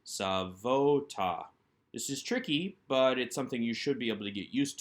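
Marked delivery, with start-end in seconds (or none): 0.0-1.5 Savota, slow, each syllable given its full weight; Savota, slow, with a clear "o" in the middle; clearly sounded out. Shown as a demonstration. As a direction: spell out Savota slowly for the class. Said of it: "that holem vav in between".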